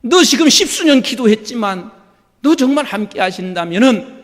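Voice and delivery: a hint of a sneering devil; taunting Satan voice. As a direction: play the tempter low-key. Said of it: "이렇게 말해요".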